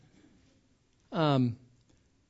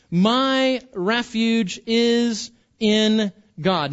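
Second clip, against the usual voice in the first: scripture reading. Acted. Reads the psalm aloud.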